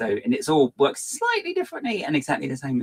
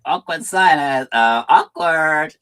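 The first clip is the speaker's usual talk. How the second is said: deadpan awkward; 5 semitones higher, 8 dB louder, much slower than usual. Retold or imitated. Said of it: "Leah said".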